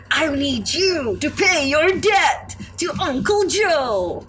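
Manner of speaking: slow, drawn-out rat shout; scabby rat voice. Acted. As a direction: bark it out like a nasty poster rat. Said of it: "scabby rat being like".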